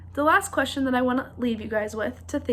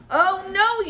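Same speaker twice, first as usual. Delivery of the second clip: troll roar; 5 semitones higher, 4 dB louder than usual. A narrator's reading. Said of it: "roared the troll".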